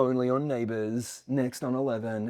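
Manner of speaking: slow channel sign-off read; understated drama promo tagline, drawn out; dark soap promo. Shown as a demonstration. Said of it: "down in this kind of darker blue zone".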